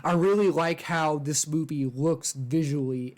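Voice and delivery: talking with a retainer in; slightly lisped retainer speech; wearing a retainer. Real, not acted. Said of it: "I kinda sound weird right now".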